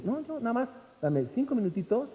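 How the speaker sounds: lightly voiced serene Hindu; calm Hindu.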